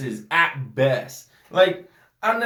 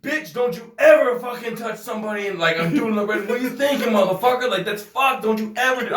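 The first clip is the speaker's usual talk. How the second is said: imagined mock telling-off; 5 semitones higher than usual. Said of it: "I wanted to be like".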